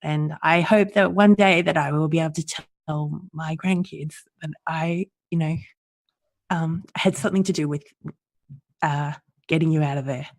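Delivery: holding back tears; teary. Real, not acted. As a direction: voice thinning, teary. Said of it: "Sorry, I get a bit teary".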